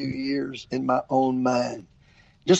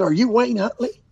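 excited woman; 7 semitones higher than usual. Retold or imitated. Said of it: "She said".

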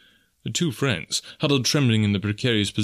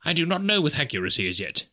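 professor's voice, pitched up; precise professor character; 6 semitones higher than usual. A narrator's reading. Professor unsure if he survived, high-pitched. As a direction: play the professor, high and tentative.

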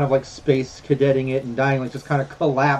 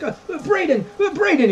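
high, halting bandit calling his dead friend; stunned bandit. Acted. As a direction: stammer the friend's name in shock, pitched well up. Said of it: "just like".

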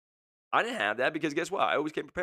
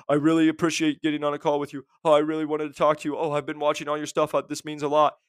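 louder, eager, gushing thanks; gushing students; 5 dB louder than usual. Retold or imitated. Mocking students who gush on calls, eager. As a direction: gush like an overeager fan. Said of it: "and they're like".

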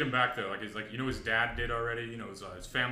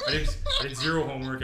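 laughing confession; 3 semitones higher, 5 dB louder than usual. Real, not acted.

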